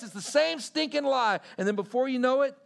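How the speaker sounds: loud, high, fierce preaching; full-force preacher shout. Real, not acted. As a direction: shout it out against the lie.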